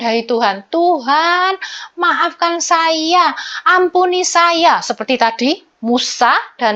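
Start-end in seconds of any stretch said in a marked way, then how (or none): 0.7-4.8 pleading prayer. Shown as a demonstration. Pleading prayer modeled for kids.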